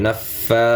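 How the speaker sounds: নাফা with the last a drawn out; one-alif stretch. Shown as a demonstration. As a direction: hold the ফা of নাফা for one beat. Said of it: "এক আলিফ টান হবে". (নাফা-র ফা এক আলিফ টেনে)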